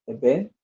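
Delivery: "event" rising onto its stressed second syllable. Shown as a demonstration. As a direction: lean on the end of "event". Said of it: "stress is on the second syllable".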